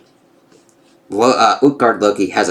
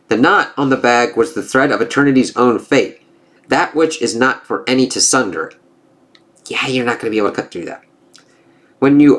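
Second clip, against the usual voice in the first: lightly voiced gods trading taunts; storybook reading of a Norse comic; comic dialogue read-aloud; 3 semitones higher than usual. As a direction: read the panels with a hint of character.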